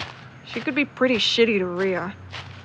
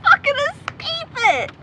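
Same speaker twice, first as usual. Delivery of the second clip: laughing exasperation; 14 semitones higher, slower than usual. Acted. Laughing at unwanted Q and A.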